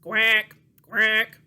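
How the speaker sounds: loud duck quack. Pretend. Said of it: "He goes".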